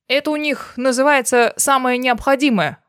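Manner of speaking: loud, gruff bark at the luggage; irritated man barking. Acted. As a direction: bark it out, fed up. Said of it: "рявкнул мужчина".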